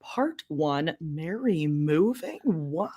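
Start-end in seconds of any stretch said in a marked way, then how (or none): 2.4-2.9 soft unvoiced gasp of fake shock; mock dismayed whisper. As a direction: whisper it in pretend disbelief. Mock dismay at episode title.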